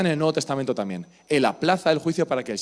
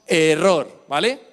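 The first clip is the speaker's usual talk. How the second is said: mock ad shout; 4 dB louder, much slower than usual. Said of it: "Es que me encanta el error".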